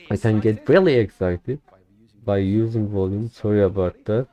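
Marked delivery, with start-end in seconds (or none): 0.1-1.6 louder. Shown as a demonstration.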